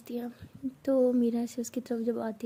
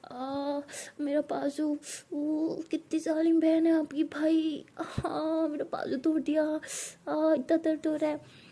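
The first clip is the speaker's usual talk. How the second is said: fake whimpering; 4 semitones higher, slower than usual. Meera fakes injury on camera.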